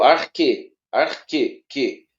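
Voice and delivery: "arque" said as "ar-ke", a clear k; arque with k sound. Shown as a demonstration. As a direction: stress the "que" of "arque" as k. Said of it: "Ele vai ter o som de que". ("arque" com som de "que")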